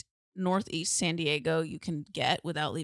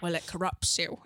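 imitating Michael Caine. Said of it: "It was like Michael Caine, but a woman".

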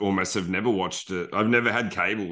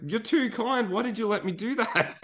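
mock squeak; 11 semitones higher than usual. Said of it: "I was like".

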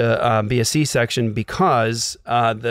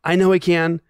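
higher-pitched, mock-unsure believer; wavering belief; 4 semitones higher than usual. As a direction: start insisting, then back off into doubt. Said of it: "stage where you're like".

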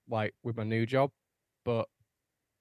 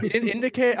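high, loud ranting at the driver; indignant high yell, half laughing; imitated screaming girlfriend; 11 semitones higher, 6 dB louder than usual. Boyfriend imitates girlfriend raging about a driver, loud and high. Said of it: "she's screaming".

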